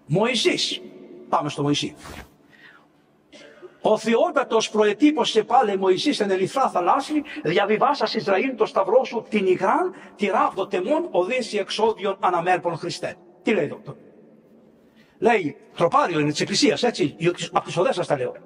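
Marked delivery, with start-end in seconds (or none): 3.8-13.2 liturgical reading. Acted. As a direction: read the troparion like a psalm in church. Reads the hymn text aloud. (αργή λειτουργική ανάγνωση τροπαρίου)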